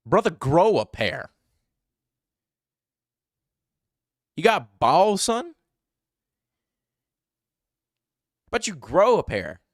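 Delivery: high, loud jeer at a coward; loud scolding. Real, not acted. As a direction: berate him to toughen up. Scolding the suspect on screen.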